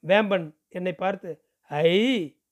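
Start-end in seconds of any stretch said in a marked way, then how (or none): 1.6-2.4 surprised. Acted. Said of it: "என்று ஆச்சரியப்பட்டான்".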